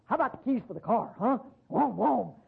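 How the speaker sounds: put-on high, pushy kid voice begging Dad; pestering teenage son. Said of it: "here comes this kid saying".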